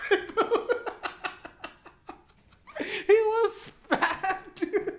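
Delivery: high squeals of laughter breaking through the words; can barely get it out for laughing. Real, not acted. Laughing while telling friends about the fat guy. Speaker cracks up mid-story.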